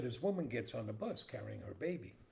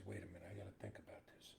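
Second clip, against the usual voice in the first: third guy; 14 dB quieter, faster than usual. Acted. Third guy voiced in joke.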